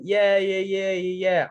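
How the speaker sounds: high, rapid-fire yeahs; imitating a kid playing along brightly; retold eager agreement. Retold feigned enthusiasm to parents.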